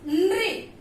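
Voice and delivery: नृ as one blend, half n into ri; teacher sounding out नृ; blended sound demo. Shown as a demonstration. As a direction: join n and ri in नृ. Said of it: "तो क्या बन गया?".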